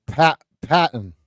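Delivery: Boston accent, slow, "Patton" with no R. Shown as a demonstration. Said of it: "Say it like I'm from Boston".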